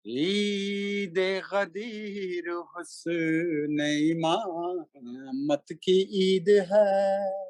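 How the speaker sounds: slow melodic chanted Urdu verse; stately nazm recitation. Acted. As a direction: intone each line like a mushaira poet. Recites a manqabat at a gathering.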